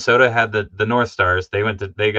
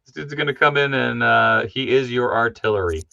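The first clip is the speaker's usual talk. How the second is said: hyped announcement; 4 semitones higher, 4 dB louder than usual. Retold or imitated.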